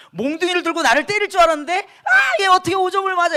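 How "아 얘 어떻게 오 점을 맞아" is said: a high yelp then higher mock disbelief; teasing father. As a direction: tease the kid with a laughing dad's voice. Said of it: "이렇게 놀리시니까". (아버지가 오 점 맞은 아들을 놀리며, 높은 목소리로)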